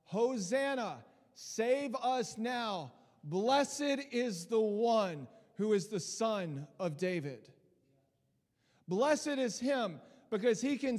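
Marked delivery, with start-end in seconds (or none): 0.0-7.5 crying out. Retold or imitated. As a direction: call it out slowly like a crowd. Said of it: "they're crying out".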